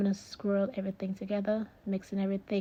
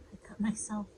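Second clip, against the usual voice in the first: whispering; 4 dB quieter than usual. Real, not acted. Discovering she is bleeding.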